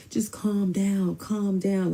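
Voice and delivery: hushed, slightly high imitation; retold placating. Man trying to settle the yelling cousin, placating. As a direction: mimic him trying to soothe her, softly.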